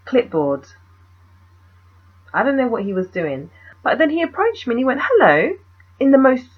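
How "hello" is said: higher, louder, eloquent British hello; eloquent British accent. Retold or imitated. Photographer approaches a young woman in the street, eloquent British accent. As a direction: greet with a lightly put-on eloquent British accent. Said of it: "eloquent British accent".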